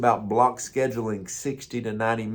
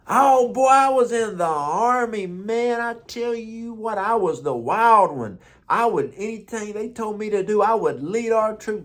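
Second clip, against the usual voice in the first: put-on much higher, friendly old-timer greeting; old man's voice; 9 semitones higher than usual. Old man in nursing home welcoming young pastor, higher cheerful old voice. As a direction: pitch way up like a cheerful elderly vet.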